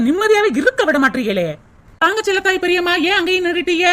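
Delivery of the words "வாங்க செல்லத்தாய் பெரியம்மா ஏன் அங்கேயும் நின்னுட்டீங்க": welcoming call. Acted. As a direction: greet her warmly from inside. Greeting a guest at the door.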